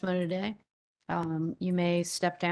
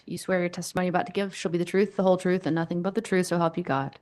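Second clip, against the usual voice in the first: court oath; faster than usual. Real, not acted. Chair swears in witness.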